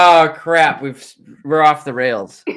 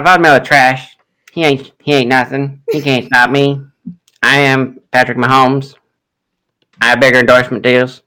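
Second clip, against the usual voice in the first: put-on Southern accent Mahomes. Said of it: "apparently a Southern accent".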